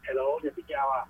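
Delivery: delayed echo through the caller's radio; faint echo of the host. Real, not acted. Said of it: "tại vì nó có cái tiếng vang đó".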